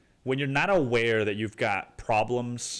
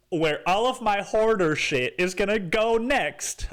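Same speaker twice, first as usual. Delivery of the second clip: brother; 6 semitones higher than usual. Retold or imitated. Brother fretting about finding a home base, mildly higher anxious voice. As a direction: lightly voice the worried brother getting worked up. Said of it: "My brother was like".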